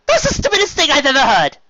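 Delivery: high, loud scoffing lady; exasperated Rarity. Acted. Rarity exasperated at her sister's logic. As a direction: huff it out in disbelief.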